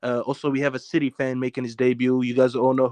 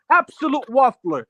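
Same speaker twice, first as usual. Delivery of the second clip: laughing tease; 7 semitones higher than usual. Real, not acted. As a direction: laugh at him while calling him out. Teasing friend, laughing.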